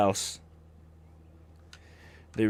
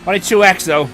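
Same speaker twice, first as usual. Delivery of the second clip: high, loud outburst; loud exclamation; 6 semitones higher, 9 dB louder than usual. Real, not acted. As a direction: blurt it out in surprise. Reacting to the car ahead.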